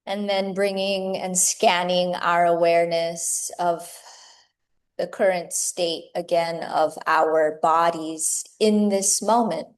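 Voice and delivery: measured meditation guiding with long pauses; guided meditation. Acted. Teacher guiding yoga teachers into meditation, unhurried meditative delivery. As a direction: lead them gently inward, phrase by phrase, leaving space between thoughts.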